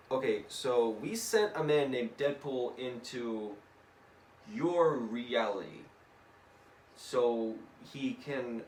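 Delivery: slow, measured, spaced-out delivery; careful explaining. Acted. Mad Tinkerer explains the mission to Sherlock, slow and deliberate. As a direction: lay it out slowly, phrase by phrase.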